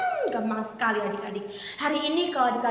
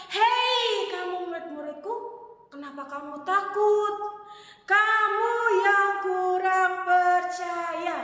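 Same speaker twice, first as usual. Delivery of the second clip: gentle rebuke; 5 semitones higher, slower than usual. Acted. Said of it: "Tuhan ngomong sama mereka".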